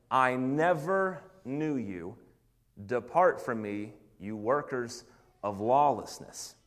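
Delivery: slow, low, grave pronouncement; Jesus's solemn verdict. Acted. Jesus turning away false followers, slow and grave.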